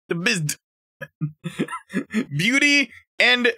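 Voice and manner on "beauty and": high, drawn-out thrill; gleeful discovery; excited. Real, not acted. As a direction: squeal it with delight. Excited over Beauty and the Beast.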